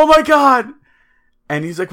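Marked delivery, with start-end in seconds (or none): 0.0-0.7 much higher and louder "Oh my God" burst; mock yell. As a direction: blurt it out in shock. Friend reacts to replay on call.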